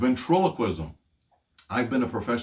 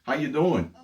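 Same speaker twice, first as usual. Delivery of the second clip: distant phone voice; 6 semitones higher than usual. Shown as a demonstration. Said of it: "you're gonna strain and go".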